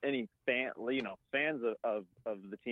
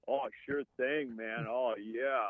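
slow, lightly voiced stoner; lazy laid-back stoner; stoner impression; slower than usual. Shown as a demonstration. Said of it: "a generic".

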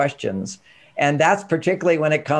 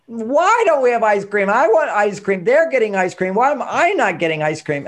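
put-on whiny child; 4 semitones higher than usual. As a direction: whine it like a kid denied ice cream. Child whining about ice cream.

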